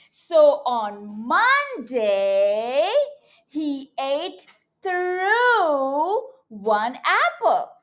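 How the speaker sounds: slow, expressive storybook reading; reading to children. A narrator's reading. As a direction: read it big and slow for little kids.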